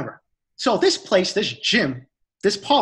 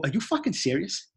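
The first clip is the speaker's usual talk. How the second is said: slow, mildly incredulous retort; 2 semitones higher, 5 dB quieter than usual. Retold or imitated. Retelling a call to gym staff, incredulous. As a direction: retell it in slow, quiet disbelief. Retelling his angry disbelief on phone.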